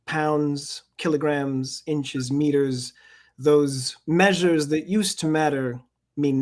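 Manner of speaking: measured, deliberate poem recital; poetry reading. Acted. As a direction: give each line its weight, unhurried. Reads his poem aloud.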